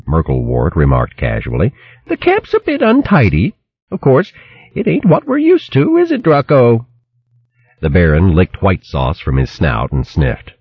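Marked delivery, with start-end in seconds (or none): 2.1-6.9 high, scolding country woman voice; shrill hedgehog wife scolding. Acted. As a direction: berate him like a fierce old hog wife. Merklewort to guests.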